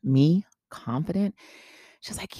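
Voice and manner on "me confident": baffled two-part question; confused. Retold or imitated. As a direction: echo it back in bewildered disbelief. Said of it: "I looked at her so confused".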